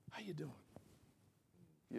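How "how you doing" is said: softer, low-key how you doing; quiet greeting. Shown as a demonstration. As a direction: say it under your breath. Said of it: "if I say".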